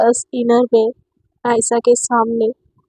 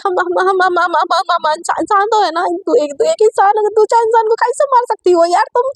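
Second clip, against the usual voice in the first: high stammer rising into a fast frantic question; stutter, then blurt the plea fast; 5 semitones higher than usual. Acted. Satya stutters a plea to Aisha, rising to frantic.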